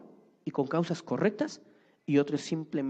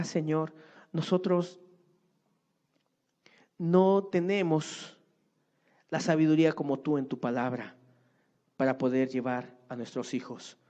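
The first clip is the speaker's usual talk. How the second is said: closing prayer. Real, not acted.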